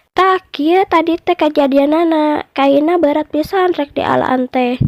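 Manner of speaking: crocodile explaining. Acted. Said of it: "cek buaya".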